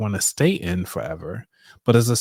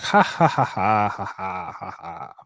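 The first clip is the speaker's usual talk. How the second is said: fake laughter; 3 semitones lower than usual. Shown as a demonstration. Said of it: "just start laughing like".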